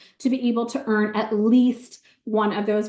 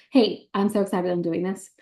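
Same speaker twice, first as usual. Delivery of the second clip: bubbly high-pitched pitch to a friend; gushing text message, high; 4 semitones higher than usual. Retold or imitated. Seller gushing to her best friend, high and excited. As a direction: squeal it like an excited invite. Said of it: "send your cart to those people".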